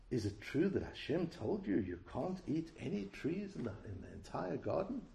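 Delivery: a hint of a sly, pious snake; snake as strict rabbi. Snake questioning Eve in the garden, lightly sly and pious. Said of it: "as a reform rabbi or as an extremely orthodox".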